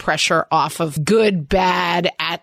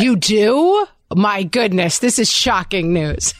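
playfully feigned astonishment; mock shock; 3 semitones higher than usual. Host teasing guest about raising her voice, mock shock. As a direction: tease with pretend surprise at the confession.

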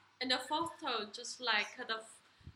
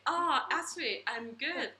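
confident answer. Retold or imitated. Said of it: "they say".

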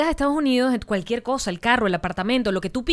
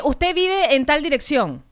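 agente telefónico apenas actuado, pausado; imitando al agente; 3 semitones higher, much slower than usual. Retold or imitated. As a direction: verifica datos lentamente, como un operador. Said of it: "Me decía". (leve voz de operador, sílabas alargadas)

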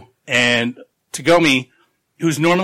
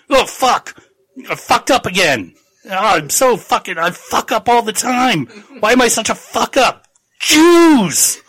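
panicked self-pity; 9 semitones higher, 4 dB louder than usual. Retold or imitated. Chilton panicking over his blunder.

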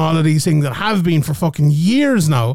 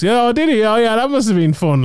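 mock-credulous, higher and bouncy; sarcastic; 4 semitones higher than usual. Host mocking fighters' training-camp excuses, sounding sarcastically credulous. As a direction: pretend to believe it, dripping with irony.

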